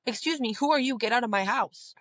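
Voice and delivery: outraged at an intruder; indignant. Retold or imitated. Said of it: "you'd be like".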